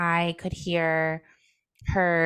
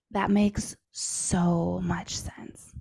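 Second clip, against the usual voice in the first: soothing whisper; much slower than usual. Retold or imitated. Mom soothing her hurt son, in a slow tender whisper. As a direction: whisper it gently to calm a child.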